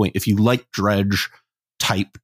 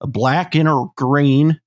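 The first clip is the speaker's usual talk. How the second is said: put-on Midwest Southern accent; 2 semitones higher than usual. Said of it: "the Midwest Southern".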